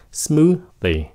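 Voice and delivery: "smoothie" as smoo-thee, short second syllable; neat smoothie ending. Shown as a demonstration. Teacher modelling smoothie, neat short last syllable. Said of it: "tì gọn thôi".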